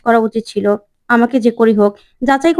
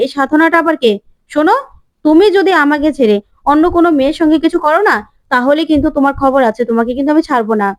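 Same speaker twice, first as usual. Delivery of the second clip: angry warning; 3 semitones higher, faster than usual. Acted. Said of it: "কুয়াশা রেগে যায়".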